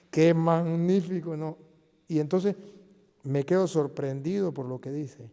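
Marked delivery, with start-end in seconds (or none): 0.1-1.4 awed exclamation. Retold or imitated. Marvelling at scripture reading.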